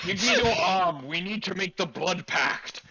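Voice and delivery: gentle bear person. Acted. Pipsqueak speaks, voiced by GM.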